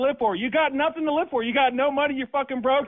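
angry man taunting the phone caller, heated. Real, not acted. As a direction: spit the insults out. Threatening the prank caller.

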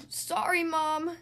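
put-on high-pitched child's call; apologetic yell. A narrator's reading. Laura rushes in after the baby, yelling. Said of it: "yelled Laura".

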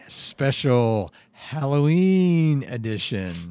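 slow, drawn-out spooky announcement; spooky announcer. Acted. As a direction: draw out Halloween like a horror host.

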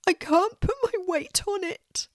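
lightly voiced young boy; small boy. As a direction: play a little boy, a bit shy. Hurt boy.

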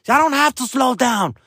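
high-pitched indignant woman's yell; mock ghetto lady. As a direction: imitate an angry woman yelling from a car. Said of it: "a ghetto-ass fucking lady".

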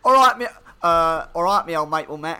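put-on botched Canadian accent that comes out Australian, loud at first; failed Canadian accent. Cohost greets a Canadian mate in a botched Australian-sounding accent. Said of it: "No, that's Australian. I can't do a Canadian accent".

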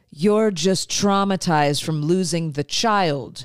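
lightly mocked reasoning dad; a hint of placating father, lifting at the end. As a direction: imitate a dad explaining it away. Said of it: "I love your dad voice".

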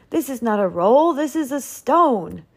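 high, indignant complaint; angry roar. A narrator's reading. Duke confronting the baker over the roll, angry roar. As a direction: pitch up in heated disgust. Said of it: "roared the Duke".

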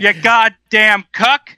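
slow Southern insult; hammed-up Southern heckler; Southern accent. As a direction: spit it out slowly in a Southern twang. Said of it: "please read that in a Southern accent".

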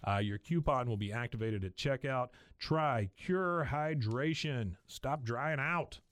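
podcast sponsor read; host-read commercial. Acted. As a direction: read the ad copy in an easy, even sell. Reads a sponsor ad.

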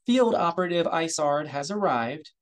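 tinny aide voice through a speaker; comlink speaker voice. Acted. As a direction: sound like a voice on a comlink. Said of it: "His aide's voice came from the speaker".

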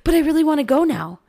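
mother imitating an eager daughter; eager child. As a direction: play the kid who suddenly wants to go. Daughter's sudden change of mind.

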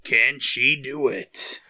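slow, hammed-up trailer-style question; mock-dramatic suspense. Co-host mocks watching a girl take stairs, mock-dramatic.

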